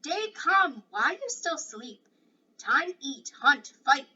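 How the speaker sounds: loud, high warrior's call across a canyon; shouting. Acted. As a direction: bellow it out to wake the sleeper at dawn. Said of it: "the Indian shouted".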